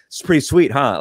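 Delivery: fishing for approval after a lame trick; Kyle Mooney skater cadence. Retold or imitated. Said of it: "that cadence".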